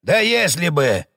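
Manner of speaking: slow angry bark; snapping. Acted. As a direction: bark it out, fed up. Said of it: "рявкнул хозяин". (злой медленный рявк)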